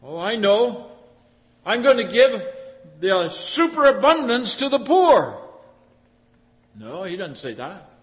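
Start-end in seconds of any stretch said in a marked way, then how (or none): 0.0-5.4 rich farmer musing. Acted. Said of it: "he says to himself".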